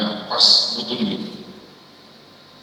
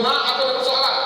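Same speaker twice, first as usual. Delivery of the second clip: put-on higher, pleading child voice; mock child calling home, much higher; whiny child on the phone; 12 semitones higher, faster than usual. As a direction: play the grown kid calling mom with a problem. Child phoning mother with problems.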